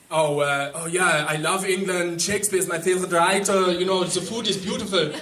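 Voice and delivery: lightly voiced eager German; a hint of a German accent, gushing; mock German guy. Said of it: "a German guy would be like".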